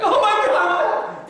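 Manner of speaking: high, loud, drawn-out panicked cry with a laugh; mom freaking out. Retold or imitated. Mom seeing her son's beaten face, stretched-out alarmed shriek. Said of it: "You know how moms react?".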